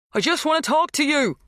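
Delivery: loud, high pleading call; yelling. A narrator's reading. Dan calling to Magda in the house, yelling. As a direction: shout it so she hears inside.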